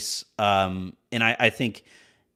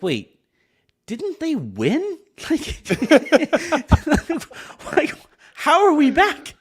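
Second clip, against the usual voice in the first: very high, slow, laughing disbelief; baffled disbelief; 13 semitones higher, 4 dB louder, slower than usual. Retold or imitated. Fan watching the sequel trilogy, high laughing disbelief. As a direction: squeak it out, laughing at the absurdity. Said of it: "you start it and you're like".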